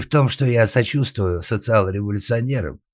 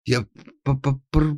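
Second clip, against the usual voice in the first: high, frightened stammer; 6 semitones higher than usual. A narrator's reading. Scared carpenter stammering before Karl. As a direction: trip over the first sounds. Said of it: "Антонио стал даже заикаться".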